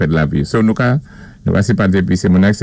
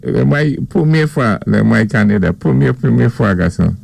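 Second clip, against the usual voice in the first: amazed; 4 semitones higher than usual. Retold or imitated. Mimics friend's first snow.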